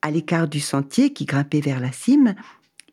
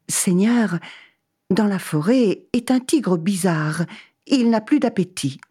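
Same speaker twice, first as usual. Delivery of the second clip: eager traveller; 4 semitones higher than usual. Acted. Man asks God.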